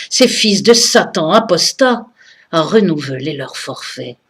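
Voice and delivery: solemn, measured militant verse; impassioned poem recitation. Acted. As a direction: declaim each verse, letting the line endings fall. Recites her committed poem from memory.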